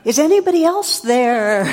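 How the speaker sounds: high and loud, voice straining; the hiker yells to anyone else, high, loud and frantic; panicked punchline. Retold or imitated. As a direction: shout it out like he's desperate for another option. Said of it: "And the guy goes".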